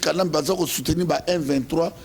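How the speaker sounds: ordinary delivery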